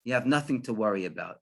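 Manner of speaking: low-key, mildly reassuring; calming. Retold or imitated. Rabbi calms the worried farmer, gently reassuring. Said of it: "smiled and calmed him down".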